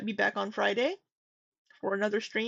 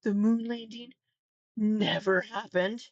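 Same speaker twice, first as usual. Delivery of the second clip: mock confident. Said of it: "she says it so confidently".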